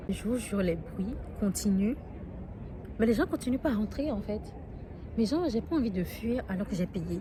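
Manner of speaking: anxious disbelief, voice climbing; agitated and alarmed. Real, not acted. Après un coup de feu entendu. (voix agitée et inquiète)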